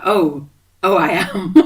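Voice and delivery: laughing, pleased with herself; smug laugh. Retold or imitated. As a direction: answer with a little laughing pride. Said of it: "And I was like".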